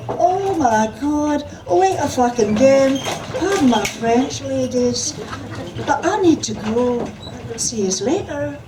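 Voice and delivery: loud, high Scottish drag queen outburst; Scottish exclamation. A narrator's reading. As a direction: rush off in a brassy Scottish panic.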